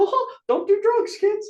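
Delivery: loud, very high-pitched voice. Joking about being treated like children: Mickey Mouse voice. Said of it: "Mickey Mouse is like".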